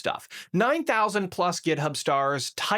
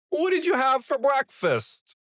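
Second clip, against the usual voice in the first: changed tone; 10 semitones higher than usual. Shown as a demonstration. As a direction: pitch the voice way up to disguise it. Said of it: "now let me change the tone".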